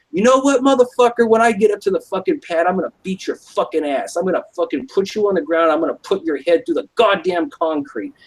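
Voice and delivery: put-on drunk angry threat. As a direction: threaten him like you're furious and drunk. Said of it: "And I was getting pissed".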